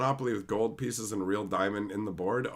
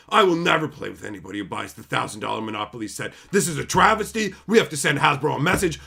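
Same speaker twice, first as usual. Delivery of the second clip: mock outraged fan; 6 dB louder, faster than usual. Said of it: "getting upset about it and going".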